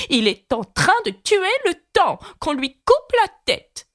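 voix très aiguë, cri joué sans force; reine hurlante imitée. Retold or imitated. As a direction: imiter la reine furieuse, voix perchée. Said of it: "en hurlant". (la reine, cri imité, voix très aiguë sans hurler fort)

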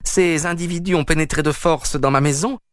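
high, strident indignation; indignant outcry. Acted. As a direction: play the wronged householder calling for help. Peters calls police against intruders.

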